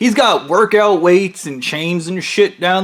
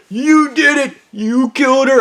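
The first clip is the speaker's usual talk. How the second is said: hammed-up accuser; 9 semitones higher than usual. Coworker accuses the narrator, high mock accusation. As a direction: point the finger in a squeaky put-on voice.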